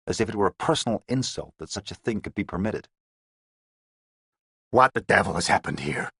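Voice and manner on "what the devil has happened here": a touch of New York bark in the demand. A narrator's reading. Menacing gang boss to police in a murder house, lightly demanding. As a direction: press the question, lightly American. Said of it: "he was demanding".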